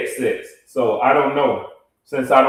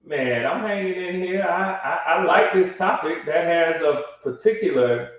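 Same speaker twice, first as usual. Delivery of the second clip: tunnel echo; 4 dB quieter than usual. Real, not acted. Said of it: "sound like he in a consolidated tunnel".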